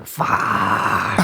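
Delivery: whispered grim curse; low whispered groan of resignation; weary groan. Retold or imitated. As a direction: breathe it out like dreading the day. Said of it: "getting out of bed going".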